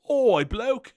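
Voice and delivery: high put-on Australian accent, nearly laughing. Shown as a demonstration. Vlogger showing an inherited accent, mock Australian accent. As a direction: call out in a jokey Australian accent. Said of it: "You're gonna have an Australian accent".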